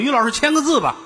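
高声热情地央求; 学求字的人讨好地喊; 学人求签名. Retold or imitated. 学后台来人求字. (拔高声音讨好地请求)

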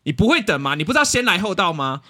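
retold exasperated scolding; angry clerk. Clerk scolding an impatient auntie at the copier, fed up. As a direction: fire off indignant questions. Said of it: "最后我真的很生气".

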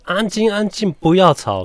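high mock teacher hush; teacher shushing. Kindergarten teacher hushing the noisy class, high and stern.

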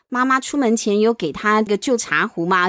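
ordinary delivery

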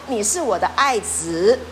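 a hint of divine tenderness; voice of God the Father. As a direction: speak as a gentle heavenly Father, unhurried. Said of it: "天父说".

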